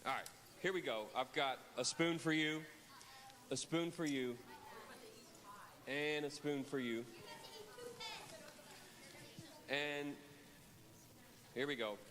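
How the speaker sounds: hushed suspense. Real, not acted. Handing out spoons dramatically.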